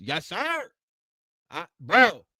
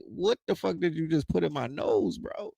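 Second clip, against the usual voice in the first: stunned protest; 5 dB quieter than usual. Retold or imitated.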